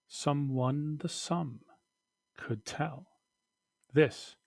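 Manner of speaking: measured poetry recital, leaning on words; poem reading. Acted. Teacher reading a poem aloud to the class, deliberately.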